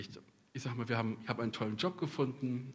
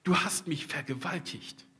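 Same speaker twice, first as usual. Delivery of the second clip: rising to a higher, louder cry of refusal; the prophet crying out against his calling; Jeremiah's protest; 4 semitones higher, 5 dB louder than usual. Retold or imitated. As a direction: protest that ends high and loud. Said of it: "Er sagt".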